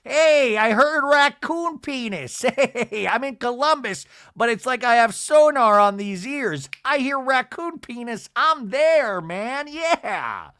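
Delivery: very high, loud hyped-up party guy; hammed-up high-pitched hollering impression; Seth Marks. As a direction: yell it like an overexcited bro bursting in. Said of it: "Seth Marks is like".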